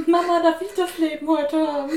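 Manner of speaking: put-on high pleading little kid; child voice. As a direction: ask sweetly like a small child. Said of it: "Ja, Kind".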